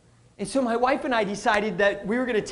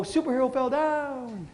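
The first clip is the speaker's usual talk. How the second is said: calm self-talk; 2 semitones higher, 5 dB quieter than usual. Shown as a demonstration. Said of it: "The next time you stumble and fall, go".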